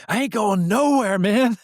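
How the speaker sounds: high, loud, tough-guy defiance straight out of a seventies cop show; retold yelling tough guy. Agitated man yelling at the security guard, refusing to go. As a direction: bark it like a stubborn street guy refusing to budge. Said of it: "So he's yelling at this guy".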